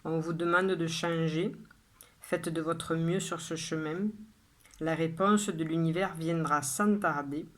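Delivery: measured poem reading with pauses after each line; poem recitation. Acted. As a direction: recite it line by line, evenly and deliberately. Reads the poem a second time. (lecture de poème posée, vers par vers)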